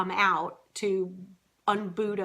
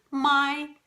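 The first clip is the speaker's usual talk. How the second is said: mother instinct panic; 3 semitones higher than usual. Retold or imitated. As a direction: fret over getting the duck home in time. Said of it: "the first thing was".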